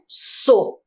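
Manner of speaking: "So" with a strong hissed S; strong S sound. Shown as a demonstration. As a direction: give "So" a powerful unvoiced S at the start. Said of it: "Precisou ficar forte, potente".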